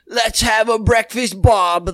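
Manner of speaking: hammed-up Welsh lilt; mock Welsh accent. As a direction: play a chirpy Welshman with a singsong accent. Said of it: "the Welsh are".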